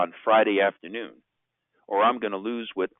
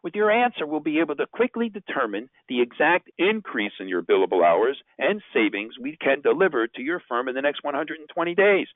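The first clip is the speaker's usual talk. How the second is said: leaving a voicemail; 4 semitones higher than usual. Shown as a demonstration. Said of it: "my storyline of voicemail message number three".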